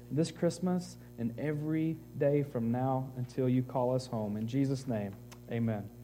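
soft, earnest closing prayer. Acted. Pastor praying over the church, soft prayer. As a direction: pray quietly over the congregation.

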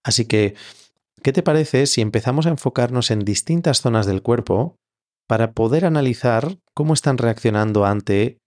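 measured meditation guidance with long pauses; guided meditation. Acted. Yoga teacher leading listeners into Yoga Nidra, guided meditation. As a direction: guide them gently into rest, leaving space between phrases.

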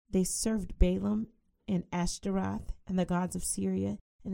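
brisk, measured King James reading; scripture reading. Acted. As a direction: read the verse out with weight to the congregation. Reads scripture aloud.

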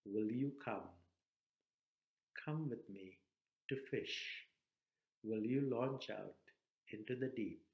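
Jesus calling. Acted. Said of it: "And he calls you".

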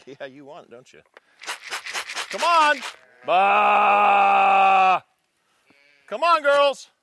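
calling sheep. Real, not acted. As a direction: call the flock up the hill.

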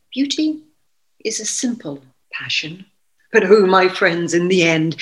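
measured dramatic poem recital; poetry reading. Acted. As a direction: read the poem with dramatic weight. Reads Anne Sexton poem aloud.

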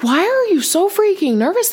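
a bride asking herself why she's so nervous, high and squeaky; high-pitched nervous self-talk. Retold or imitated. Bride to herself before the wedding, high panicky squeak. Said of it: "I was like".

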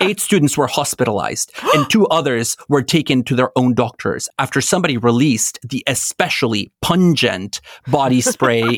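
news anchor read; lightly voiced journalist reading a report; field reporter. Shown as a demonstration. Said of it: "imagine this in a journalistic voice".

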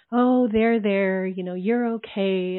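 slow, placating coo, done in mockery; mock shushing. People shushing a crying woman, mock soothing. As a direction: imitate someone soothing a crier, drawn out. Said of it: "people are trying to shush me".

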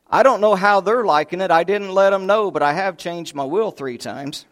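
a hint of a hard-of-hearing grandpa. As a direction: deliver the punchline with sly pride. Deaf old man's punchline.

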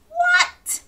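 high squeaky what; shocked little gasp of a word; sudden high astonished question; surprised. Acted. Surprised reaction in story reading.

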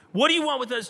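lightly acted demon's outcry; mild scream. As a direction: cry out, half full force. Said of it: "this voice screams out".

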